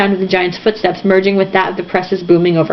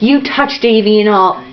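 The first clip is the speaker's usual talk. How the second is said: hissed threat. A narrator's reading. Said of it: "he hissed".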